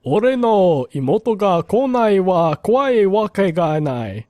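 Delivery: put-on slow, drawn-out old man reading a title; lightly voiced grandpa, stretching the words. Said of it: "what voice was that".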